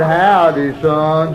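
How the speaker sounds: loud, drawn-out backwoods hello; lightly voiced hillbilly ma; mountain ma's greeting. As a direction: holler back like a mountain mother. Ma answers boy's drawn-out howdy.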